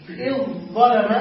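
إذ ظلم with a clear emphatic ظ; model pronunciation. Shown as a demonstration. Teacher lists the first permitted form, carefully spoken. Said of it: "فنقول".

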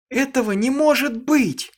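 high, loud hysterical cry; shrieking in horror; hysterical scream. A narrator's reading. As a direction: scream it in disbelief and terror. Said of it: "истерически закричала она наконец".

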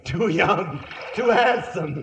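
high, hammed-up panic rising to cries; squeaky panicky sidekick. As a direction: beg for water, rising to squeaks. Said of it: "squeaky panicky sidekick".

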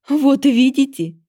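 loud, slow, high cackling goddess. Acted. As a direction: gloat like a mad deity. Goddess laughing madly.

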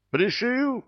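high, excited cry; exclaimed. Acted. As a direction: cry out in triumph. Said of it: "вскричал Сопляков-старший".

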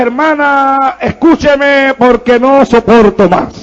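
drawn-out, fed-up plea; retold weary exasperation, slowing at the end; exasperated retelling. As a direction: stretch each phrase out as if at your limit. Retelling his exasperated reply to her.

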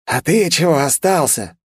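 high, slow yelled demand; demon shouting. A narrator's reading. Demon yells at the hero who stayed, shouting. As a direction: bark it out like a cornered demon. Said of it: "продолжал кричать демон".

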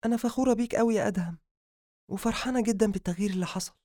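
high-pitched, rapid praise; proud heroine. Acted. Habiba tells Adham she is proud of his change, delighted. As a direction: tell him quickly how proud you are.

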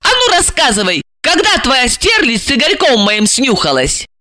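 put-on high, light voice of an eager young woman; young woman's voice. A narrator's reading. Young woman asking her handler, high and eager. Jealous heroine demands.

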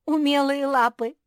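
mocking echo. A narrator's reading. Kuki mocking her little sister's boast, loud and jeering. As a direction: mimic «умелые лапы» scornfully. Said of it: "Куки расхохоталась".

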